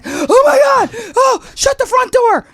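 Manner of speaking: very high, slow, loud squeal; starstruck shriek. Retold or imitated. Fan meeting her idol at a party, shrieking. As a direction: squeal in disbelief. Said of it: "I'm Diana Nyad".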